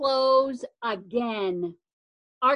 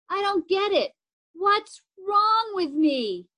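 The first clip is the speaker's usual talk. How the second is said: higher, pleading and tearful; 3 semitones higher than usual. Acted. Sister sobs to her brother about her new school. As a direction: spill out her worries through tears. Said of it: "Zoe sobbed".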